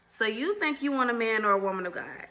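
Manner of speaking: lightly voiced quiz host, teasing the audience; game show host tone. Shown as a demonstration. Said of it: "You gotta say it in that tone".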